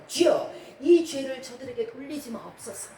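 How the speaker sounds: acted fervent plea to the Lord; lightly acted, pleading prayer; earnest prayer. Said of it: "간절히 기도합니다".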